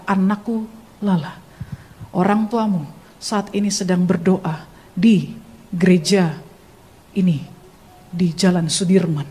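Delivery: gentle, loving, authoritative. Retold or imitated. God tells daughter where parents pray, gentle authority. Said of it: "lembut dan penuh kasih, tapi berotoritas".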